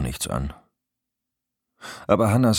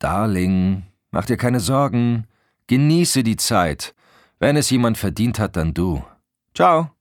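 higher, louder gushing phone voice; effusive reassurance; 6 semitones higher, 5 dB louder than usual. A narrator's reading. Best friend telling her to enjoy the trip, effusive. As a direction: send her off with breezy enthusiasm.

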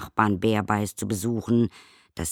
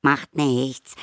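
higher, louder cheerful call; 7 semitones higher, 6 dB louder than usual. A narrator's reading. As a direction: call it out brightly. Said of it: "rief das Tingeli".

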